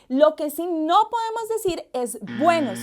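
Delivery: "buenos" stressed as the wrong greeting; wrong form stressed. Shown as a demonstration. Teacher warning students, stressing the incorrect "buenos". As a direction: lean on "buenos" to mark the error. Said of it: "no está bien".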